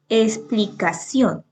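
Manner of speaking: "explicación" slowly, syllable by syllable to CIÓN; teacher's slow demo, "explicación" weighted on CIÓN; stress on CIÓN. Shown as a demonstration. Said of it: "el acento en la última sílaba".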